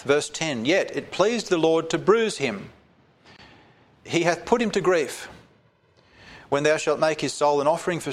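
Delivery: solemn reading from the pulpit; scripture reading. Acted. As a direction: read the prophecy out with gravity. Reads scripture aloud.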